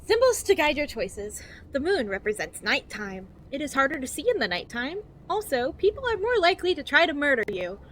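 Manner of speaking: over-enunciated guidebook narration, lilting up and down; cheery infomercial voice. Acted. Reading a survival guide to new players, cheery infomercial voice. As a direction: read it like a relentlessly positive infomercial. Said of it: "infomercial that's trying to be cheery and positive".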